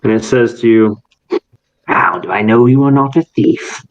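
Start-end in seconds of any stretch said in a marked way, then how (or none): 1.9-3.8 lightly voiced haughty questioner; a touch of condescension; condescending. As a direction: talk down with measured, mild disdain. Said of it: "very condescendingly".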